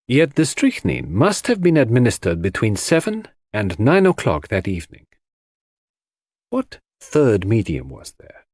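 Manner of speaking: detective building his case point by point; lightly accented sleuth laying out a puzzle; lightly voiced Poirot. Poirot expounds the case in character.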